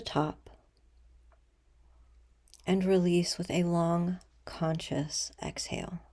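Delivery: soft, unhurried meditation voice with long pauses; guided meditation. Acted. Leader guiding listeners to breathe and imagine a threshold, calm meditation voice. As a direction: ease them gently into stillness, letting sentence ends fall away.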